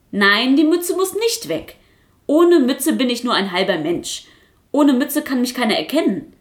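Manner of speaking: high, loud puppet voice stressing nicht; protesting puppet. Acted. Quasselkasper refusing to give up his cap, high and loud. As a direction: insist hard like a defiant puppet.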